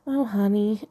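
put-on cut glass English accent. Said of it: "in her cut glass accent".

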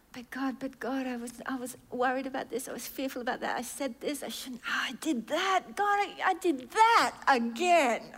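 fretful pleading that climbs to a cry; a guilty believer pouring it out to God; anxious confession. Acted.

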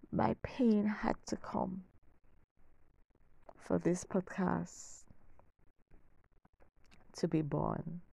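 soft, awed whisper to listeners; hushed intimacy. Real, not acted. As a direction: drop to a whisper for the revelation. Intimate turning point.

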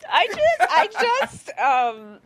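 high squeaky stammer; a high, flustered squeak; squealing disbelief. Real, not acted. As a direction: squeak it out, lost for words. Overwhelmed reaction to a word.

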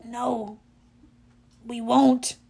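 mildly downcast, halting; understated misery; miserable. A narrator's reading. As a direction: give up hope, pausing mid-sentence. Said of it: "Grover said miserably".

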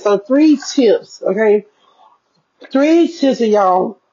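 talking through candy; chewing while talking; mouth full. Real, not acted. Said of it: "why am I eating some Reese's".

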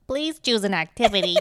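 lightly voiced electronic toy prompt; talking toy computer. Co-host recalls her childhood Computron toy, imitating its voice. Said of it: "the desktop computer sounded like Computron".

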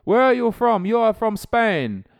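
high, loud and slow, mock foreign official; caller's voice. Official quizzing the prankster about his origin, high slow mock voice. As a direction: lean on each word like a suspicious questioner. Imitating the caller questioning him.

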